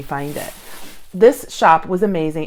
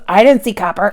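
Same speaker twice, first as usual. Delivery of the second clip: Julie voice; 3 semitones higher, 7 dB louder than usual. Retold or imitated. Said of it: "So that's my Julie voice".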